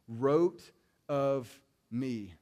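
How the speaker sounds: WROTE, OF and ME each drawn out slowly; emphatic verse quote. Retold or imitated. Preacher quoting Jesus on Moses, "wrote of me" slow and emphatic. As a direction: land "wrote of me" word by word, very slowly.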